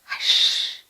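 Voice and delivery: soft unvoiced shush; whispered hush. Shown as a demonstration. Teacher whispers hush for a sleeping baby. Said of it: "The baby is sleeping".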